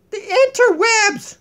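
slow booming announcement; grand proclamation. Pretend. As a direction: declare it grandly.

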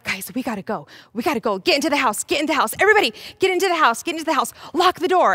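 rushed, rising panic; urgent scrambling disciples; scared urgency. Acted. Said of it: "they're also really scared".

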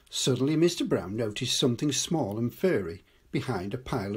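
put-on storybook read-aloud for children; story narration. A narrator's reading. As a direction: read it like a bedtime story, unhurried. Grandad reads picture book aloud.

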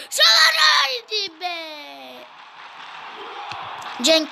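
football play-by-play. Acted. Commentates the second half.

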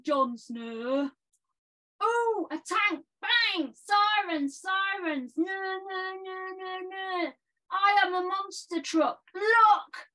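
hammed-up boastful gamer lad; silly clown. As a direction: bellow nonsense like a cocky clown. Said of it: "So I've done a poem".

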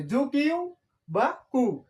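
জু কিউ বা কু said slowly, each syllable separate; slow careful correction. Shown as a demonstration. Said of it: "sorry".

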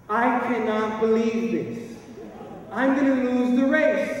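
hammed-up panic at losing; retold dismay. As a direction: wail it as your heart drops. Heart drops seeing wife ahead.

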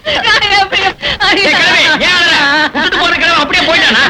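loud, high-pitched heckle; gruff scolding shout. Acted. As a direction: holler at the crying granny. Yelling at a crying old woman. (அதட்டிக் கத்தும் குரல்)

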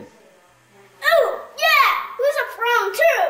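high, eager cheer; real excited. Pretend. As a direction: bounce it out with joy. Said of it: "Real excited like the blind did".

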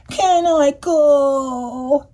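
slow high begging; pleading duck. Acted. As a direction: draw out the plea like a duck begging. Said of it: "pleaded the duck".

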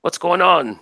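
high-pitched sergeant's yell. Acted. Game master voices the sergeant ordering his men, yelling out. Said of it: "He's yelling out".

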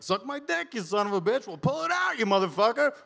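high-pitched retold taunts; acted-out brawler bickering; mock angry exchange. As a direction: play two guys squabbling, voice way up. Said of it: "He's like".

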